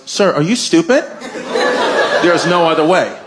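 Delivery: mildly exasperated mock principal; upset principal. Principal to persistent dad, mildly upset. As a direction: let the patience slip a little. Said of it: "the principal just gets upset".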